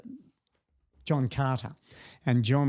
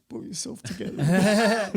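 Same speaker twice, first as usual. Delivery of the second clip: stern order; 9 semitones higher, 5 dB louder than usual. Retold or imitated. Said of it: "I'm sort of going".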